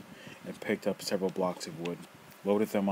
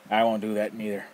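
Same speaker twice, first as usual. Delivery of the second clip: loud, rough, mocking old man; teasing old rogue; 3 semitones higher, 6 dB louder than usual. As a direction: toy with the kid, loud and gleeful. Nefer introduces himself.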